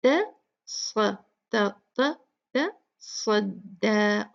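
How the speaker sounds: तस्वद broken into syllables, slow; light ta, heavy swad. Shown as a demonstration. Teacher drilling syllables for the class, slow. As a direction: split तस्वद into त and स्वद, स्व heavy. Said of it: "दाल भी light होगी".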